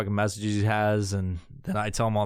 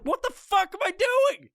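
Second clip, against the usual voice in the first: self-scolding shout. Retold or imitated. Catching himself scrolling Facebook, a high shout at himself. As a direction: yell at yourself, catching yourself. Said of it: "I'm like".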